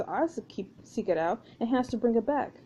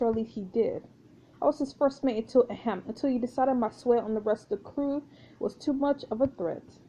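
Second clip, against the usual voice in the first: lightly voiced French first mate; a hint of French swagger; French pirate, proud exile. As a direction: tell your tale as a lightly accented French pirate.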